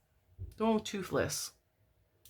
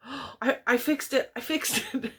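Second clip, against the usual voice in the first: put-on panicky toddler; 7 semitones higher than usual. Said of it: "he's all".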